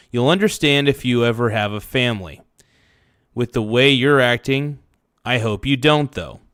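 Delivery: ordinary delivery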